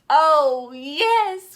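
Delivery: high, loud joyful yes; kids cry out. Acted. Children cheer for story hour, loud. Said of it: "cried the kids".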